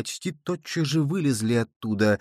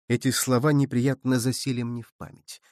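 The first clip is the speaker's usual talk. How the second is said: ordinary delivery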